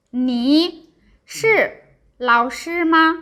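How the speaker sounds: slow demo of 你是老师吗, syllables drawn out; practicing tones. Shown as a demonstration. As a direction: model 你是老师吗 slowly. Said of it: "Always use picture".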